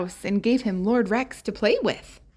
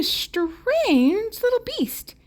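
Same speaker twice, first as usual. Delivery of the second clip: rising mystery; 12 semitones higher, much slower than usual. A narrator's reading. Narrator builds mystery.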